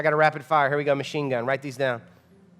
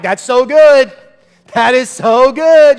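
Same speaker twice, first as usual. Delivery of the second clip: high, very loud, drawn-out praise; enthusiastic amen; 6 semitones higher, 12 dB louder, slower than usual. Retold or imitated. Churchgoer reacting to the sermon, loud and high. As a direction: gush it like a moved listener. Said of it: "so many people are like".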